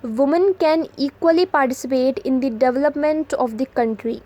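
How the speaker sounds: very slow, each word set apart; slow dictation read. Shown as a demonstration. Teacher reading an example sentence to students, very slow. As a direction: spell it out slowly for the class.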